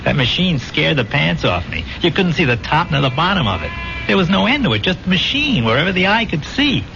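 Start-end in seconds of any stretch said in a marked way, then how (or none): 4.1-6.8 higher, agitated storytelling; overawed. Acted. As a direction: stress how vast and frightening it was. Recalls the machine that scared him.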